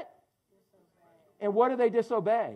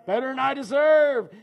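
model answer; 5 semitones higher, 11 dB louder than usual. Shown as a demonstration. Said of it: "What do we say back to 'em?".

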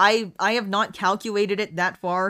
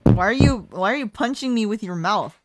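loud, incredulous question; raised-voice bewildered complaint; loud protest; 3 semitones higher, 7 dB louder than usual. Real, not acted. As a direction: demand an answer, loudly. Mock confrontation over mic punching.

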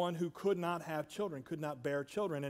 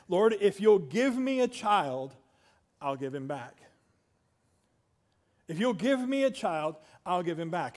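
pleading prayer; 3 semitones higher, 7 dB louder than usual. Acted. Hannah bargaining with God, loud and pleading. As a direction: beg God with rising urgency. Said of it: "this is what Hannah's saying".

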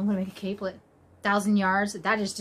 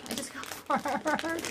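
slow, softer, with a little laugh; weary drawl; 8 dB quieter than usual. Real, not acted. Vlogger tired after her job, weary drawl. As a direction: drag it out wearily.

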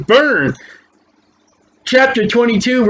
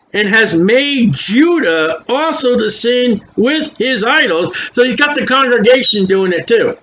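whistling s. Real, not acted. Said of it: "I apologize for my whistling".

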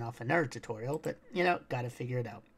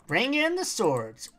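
excited battle call; 6 semitones higher, 7 dB louder, slower than usual. Real, not acted. Starting a fight.

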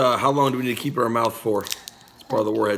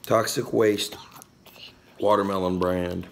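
whisper; 5 semitones lower, 4 dB quieter than usual. Acted. Whispered brand name.

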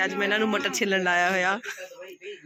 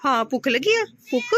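cooing to cat; 4 semitones higher, 4 dB louder than usual. Real, not acted. Asking the cat if hungry.

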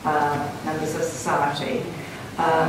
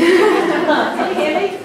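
laughing; 11 semitones higher, 4 dB louder, slower than usual. Real, not acted. Checking the mic, laughing.

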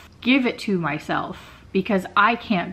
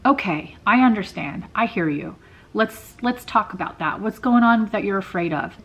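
understanding; 3 semitones higher than usual. Acted. Talking with her anxious inner manager, understanding. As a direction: soothe a scared inner voice. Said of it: "have this conversation with your inner manager".

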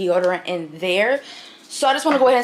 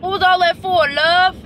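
exasperated scolding; 8 semitones higher than usual. Real, not acted. Scolding a driver.

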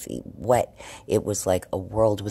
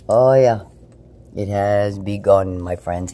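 excited announcement; 10 dB louder, slower than usual. Real, not acted. Snow starts, greeting viewers.

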